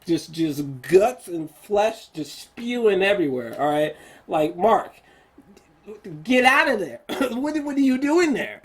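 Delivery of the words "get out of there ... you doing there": a viewer shouting at the screen, half laughing; yelling at the screen. Acted. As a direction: call out to him like a horror-film fan.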